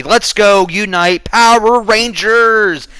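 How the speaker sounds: a slow, hammed-up rallying call; mock Power Rangers rally cry. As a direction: parody a cheesy team cry. Mocking cheesy team-up rally.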